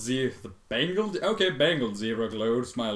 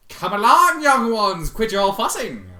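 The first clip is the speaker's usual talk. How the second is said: loud, higher bossy zebra voice; hammed-up Zecora; 9 semitones higher, 10 dB louder, slower than usual. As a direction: herd them along theatrically. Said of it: "Zecora voiced".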